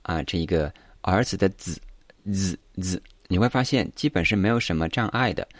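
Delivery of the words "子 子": 子 said softly through closed teeth; teeth-clenched Mandarin sound. Shown as a demonstration. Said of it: "咬紧你的牙齿". (咬紧牙齿读“子”)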